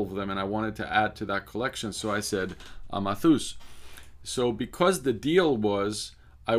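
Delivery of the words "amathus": put-on Amathus in a Cypriot accent, open A's. Answering the aunt about lunch, Cypriot accent. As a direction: answer with the name the Cypriot way, ah-mah-THOOS. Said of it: "in a characteristic Cypriot accent".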